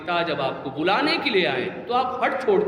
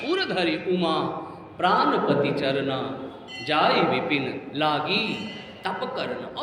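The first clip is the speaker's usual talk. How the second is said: slow, low scriptural recital; measured devotional verse, softening at the end; verse recitation; 5 semitones lower than usual. Real, not acted. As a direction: recite line by line with long pauses.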